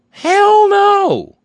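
loud high-pitched shout. Real, not acted. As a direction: bellow it out in outrage. Ranting host shouts rhetorical answer.

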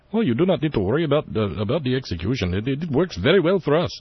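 light imitated Indian accent; Bandar Bush Indian accent. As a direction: Indian accent, quick and casual. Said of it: "I guess that's kind of an Indian accent".

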